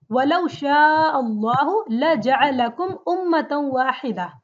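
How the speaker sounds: intoned, measured Arabic recitation; Quran recitation. Acted. Teacher recites the verse for students, recitation style. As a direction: chant the verse in flowing recitation.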